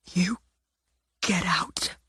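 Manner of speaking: soft, broken, barely voiced; barely whispered. Simone ordering her sister out, barely whispered. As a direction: push the words out with almost no breath. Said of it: "could barely whisper the words".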